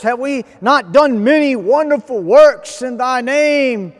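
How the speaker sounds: emphatic preacher voicing the protesters; pleading scripture recitation. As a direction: recite it as an insistent plea to the Lord. Recites pleas of the rejected.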